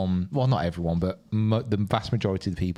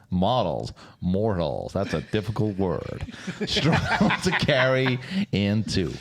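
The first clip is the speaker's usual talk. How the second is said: put-on American voiceover accent. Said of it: "your ridiculous voice".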